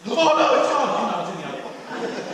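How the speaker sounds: loud "oh no" breaking into laughter; laughing mock panic. Nervous cash carrier panicking, laughing. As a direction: fake a panic, then laugh it off.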